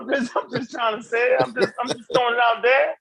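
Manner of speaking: high-pitched, playful plea of innocence; mock-innocent protest. Feigning innocence after being teased.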